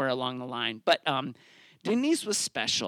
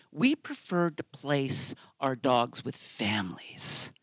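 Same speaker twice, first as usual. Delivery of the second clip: hushed, slow mock-official whisper; 3 semitones lower, slower than usual. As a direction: whisper it like a snooty agency. Agencies' rejection phrase, whispered.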